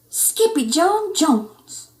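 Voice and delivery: slow, loud scolding call; exclaiming. Acted. Mama finding the mess, slow scolding call. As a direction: call his full name. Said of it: "exclaimed Mama".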